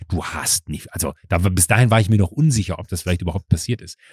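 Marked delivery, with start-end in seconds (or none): 0.1-0.9 muttered curse. Retold or imitated. Seething thought in retold scene.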